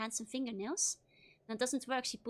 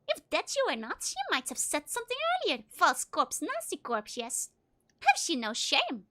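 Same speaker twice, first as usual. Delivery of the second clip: lightly voiced scolding old woman, higher; scolding crone; 4 semitones higher than usual. Game master voicing Martha scolding the corpse, mildly higher. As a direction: nag at the corpse.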